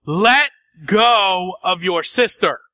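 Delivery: firm parental order to stop wrestling; loud and firm. Retold or imitated. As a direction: tell the kids off firmly, slowly. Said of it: "in a loud and firm voice".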